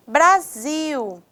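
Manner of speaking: "Brasil" with the stress on the final "sil"; stress on last syllable. Shown as a demonstration. Teacher showing students an oxytone, stressed "sil" in "Brasil". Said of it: "Zil é uma sílaba que tem".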